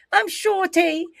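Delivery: loud, high thuggish British character; Shorty. Acted. Imitating thuggish wrestler introducing herself, loud and high. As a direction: belt it out as a brash thug. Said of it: "'cause she's a thuggish character".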